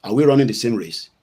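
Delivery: usual speaking voice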